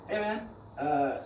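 put-on Hamudi's accent. Friend calling with an invitation, mimicked in his accent. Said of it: "I like the accent".

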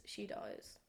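dropped to an unvoiced whisper. Shown as a demonstration. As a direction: let it fall to a grim whisper. Ominous refrain in ransom note.

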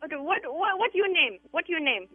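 put-on Vietnamese accent. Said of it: "The Asian cleaners".

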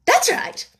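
high, loud royal reply; shouted approval. A narrator's reading. The Queen answers the soldiers, shouting. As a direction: call it out imperiously.

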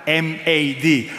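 "M A D" spelled letter by letter, slowly. Shown as a demonstration. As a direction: spell "M A D" one letter at a time. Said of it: "how to spell mad".

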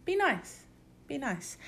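put-on high, soft, babyish pleading; high soft plea. To her doubting self, high soft pleading. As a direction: coo it like a spoiled birthday girl. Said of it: "I was like".

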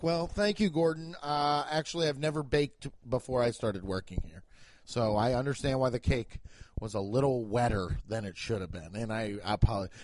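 mild, low, polite explanation; lightly voiced meek baker; meek apology. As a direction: explain yourself humbly to the boss. Meek baker apologizing to screaming chef.

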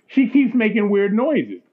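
retold line through suppressed laughter; slow, laughing imitation of an amused friend. Chris tells his friend about the girl's noises, laughing. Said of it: "Chris comes out laughing".

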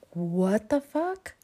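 slow, dragged-out shocked question; mock dumbfounded reaction; drawn-out incredulous what; stunned disbelief. She reacts to bracelet demand.

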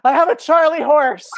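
high, loud cry over a leg cramp; hammed-up pained shout; imitated yell of pain. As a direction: yelp it out like a sudden cramp hit. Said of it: "just yells out".

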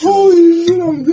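loud, high exclamation of disbelief; excited shout. Real, not acted. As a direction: yell it out in shock. Reacting to a stunt.

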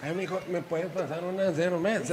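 put-on slow, gentle old man asking. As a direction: ask sweetly like a grandpa. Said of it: "desagradable de los viejos".

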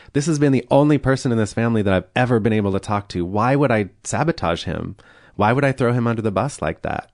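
quick, mildly heated protest; retold arguing. Retelling a defence to grandmother, mildly argumentative. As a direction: argue your case in a rush, pitch lifted a little. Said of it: "arguing with her".

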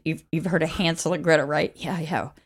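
ordinary delivery

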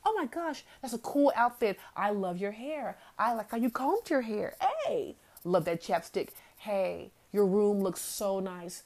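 put-on shower the kid with praise; gushing praise. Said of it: "We forget to praise and say".

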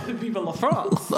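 slow, laughing hammy French cheer; laughing mock French.

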